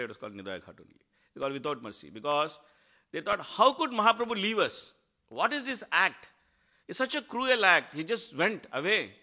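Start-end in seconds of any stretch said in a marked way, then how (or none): 3.4-9.1 raised, louder pleading cry of loss; grieving lament. Retold or imitated. Villagers mourning Mahaprabhu's departure, raised lament. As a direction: lament the cruel parting as the villagers.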